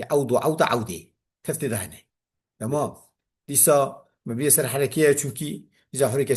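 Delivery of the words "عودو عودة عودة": عودو، عودة، عودة as awdu, awda, awdi; three final vowels. Shown as a demonstration. Teacher showing endings, عودو، عودة، عودة changing only the last vowel. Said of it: "بفتح أولي وتثليث آخري".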